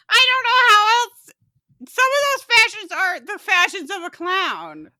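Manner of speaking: high, loud words pushed through laughter; helpless hilarity. Real, not acted. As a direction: struggle to speak while cracking up. Helpless laughter over clown fashion.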